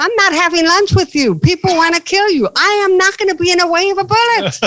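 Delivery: high, loud comic protest; mock panicked refusal. Comedian refusing Bhutto's lunch invite, in a hammed-up loud panic. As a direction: yell it like you want no part of the bullets.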